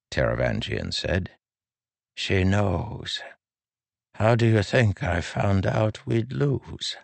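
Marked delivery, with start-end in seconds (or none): 2.1-7.0 put-on high, slow old man's voice; lilting elderly voice, higher; frail old man. A narrator's reading. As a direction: speak as a gentle aged king.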